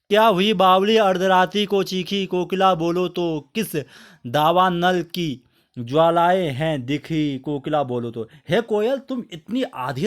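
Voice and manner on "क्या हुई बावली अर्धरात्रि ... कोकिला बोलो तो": poem recitation. Acted. (धीमे, गंभीर कविता पाठ)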